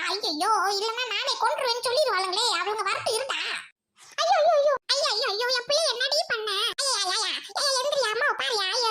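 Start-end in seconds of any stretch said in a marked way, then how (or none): 4.2-8.9 mock wailing mother; wailing lament. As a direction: cry out in grief, hammed-up. Mother wails over injured son.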